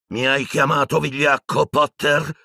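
high, affronted cry; shouted retort. A narrator's reading. Piton answering Harry's insult, shouting back. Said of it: "gridò Piton di rimando".

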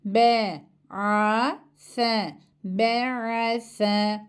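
teacher lisping the "S" as a model to copy; lisped S. Shown as a demonstration. Teacher drills the letter for her class, with a lisp. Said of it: "Buradaki S harfi peltek okunuyor".

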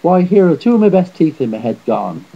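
aggrieved giant's shout. A narrator's reading. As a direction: protest loudly about the lost teeth. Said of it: "shouted the other again".

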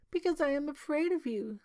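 high-pitched timid princess voice; frightened princess. A narrator's reading. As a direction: answer as a scared princess. Frightened princess answers the minister.

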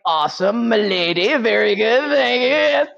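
drawn-out, climbing cheer of approval; mock delighted reply. Partner's delighted reply, acted.

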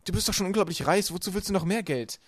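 high, loud reproachful question; indignant. A narrator's reading. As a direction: challenge the greedy guardian. Boy confronts the villainess. (vorwurfsvoll, laut und hoch)

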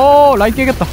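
high, loud alarmed call; excited shout. Real, not acted. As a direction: shout the warning urgently. Shield about to break.

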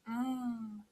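soft, sighing mmm of pleasure; contented sigh. A narrator's reading. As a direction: sigh softly over a lovely taste. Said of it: "she sighed".

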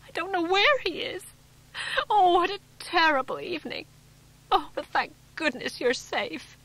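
high, loud, crying out between sobs; a frantic wife weeping with relief; tearful and distraught. A narrator's reading. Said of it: "tears pouring down her face".

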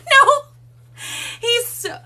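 high, loud laughing no; amused laughing denial. Real, not acted. Laughing at chat question.

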